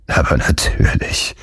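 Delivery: whispered, no voice at all. Acted. A character assuring Gutenberg, whispered. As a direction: breathe it like a secret. Unvoiced aside in the dialogue.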